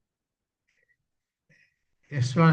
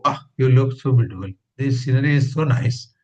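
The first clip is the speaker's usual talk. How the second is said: louder, delighted astonishment; amazed exclamation; 4 dB louder than usual. Shown as a demonstration. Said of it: "That means you are amazed".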